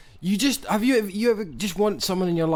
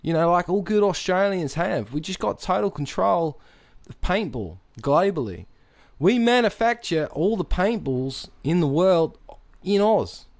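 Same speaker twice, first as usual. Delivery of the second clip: boastful put-on Aussie, pitched up; Australian accent; 4 semitones higher than usual. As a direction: brag in a hammed-up Australian accent. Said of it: "you've sustained this accent".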